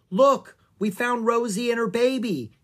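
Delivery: put-on girl showing the rangers the rhinos, shouting gladly; happy shout. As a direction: call proudly to the rangers. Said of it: "Annie shouted".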